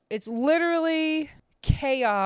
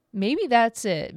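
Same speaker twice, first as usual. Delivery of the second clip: slow dawning realization; 3 semitones higher, slower than usual. Shown as a demonstration. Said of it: "repeated realization".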